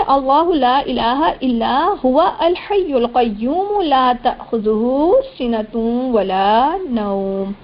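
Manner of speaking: slow, drawn-out chanted recitation; Quran recitation. Shown as a demonstration. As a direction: chant each word long and measured.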